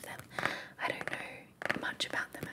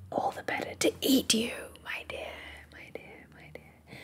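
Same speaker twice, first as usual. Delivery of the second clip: snarled; 4 semitones higher, 4 dB louder than usual. Acted. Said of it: "snarled the wolf".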